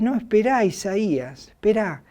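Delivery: voice from heaven. Retold or imitated. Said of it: "la voz del cielo dice".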